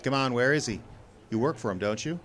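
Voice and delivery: tough-guy grilling; tough demand. Acted. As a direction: lean on the kid, demand an answer. Confronting the tail.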